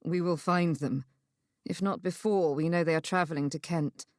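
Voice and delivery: lightly voiced man, calm and sure; steady, reassuring male lead; reassuring male character.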